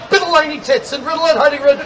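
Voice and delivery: fast, run-together patter to hide the joke; rushed through. Shown as a demonstration. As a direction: rattle it off quickly so nobody catches it. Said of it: "See, you go fast enough".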